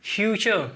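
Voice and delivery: फ्यूचर said fyoo-char with ch; teaching pronunciation. Shown as a demonstration. Teacher models future for the class. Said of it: "जिसको हम कहते हैं".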